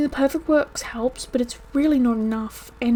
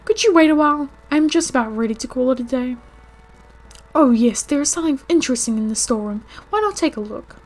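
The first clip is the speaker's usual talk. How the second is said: a hint of a breezy doctor, slightly louder; lightly voiced game doctor; 3 semitones higher, 5 dB louder than usual. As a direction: play the doctor lightly, brushing off worries. Voices the game's Doc.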